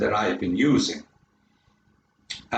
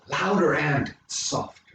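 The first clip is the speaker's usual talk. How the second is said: LOUDER said full, "softer" dropped back; louder then softer. Shown as a demonstration. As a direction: demonstrate volume on "louder and softer". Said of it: "change in volume".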